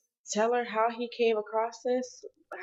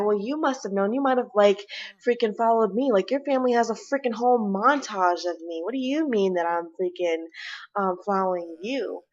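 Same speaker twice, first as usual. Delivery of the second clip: angry retort; 4 dB louder than usual. Acted. Acted quarrel, her voice.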